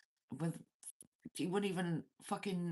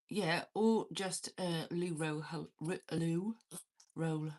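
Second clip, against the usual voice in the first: slow, fumbling over loo roll; tongue-tied stumble; slower than usual. Real, not acted. Streamer suggesting a prop for Lex, stumbling slowly over loo roll. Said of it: "I don't know why I couldn't say that".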